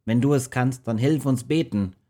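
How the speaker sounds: urgent plea. Acted. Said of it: "befahl er".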